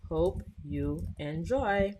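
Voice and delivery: slow, drawn-out test sentence; lightly dictated test line; dictating while typing. Shown as a demonstration. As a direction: spell it out slowly as you type. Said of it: "what I'm gonna say is I'm gonna do a test".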